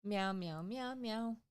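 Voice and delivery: playful repeated meowing; cat meows. Pretend. Co-host meowing playfully at her partner like a cat. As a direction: meow at your co-host like a cat.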